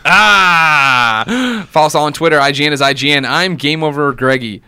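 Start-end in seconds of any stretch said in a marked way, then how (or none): 0.1-1.7 drawn-out cry. Pretend. Cry closing the sign-off.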